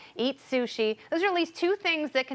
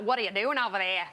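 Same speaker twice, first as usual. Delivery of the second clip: lightly put-on Australian accent; 3 semitones lower, faster than usual. Host playing the giant spider for co-hosts, mock Australian accent. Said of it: "when I do my Australian accent".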